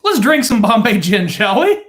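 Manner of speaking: mock Indian accent. Accented joke about imperial Britain.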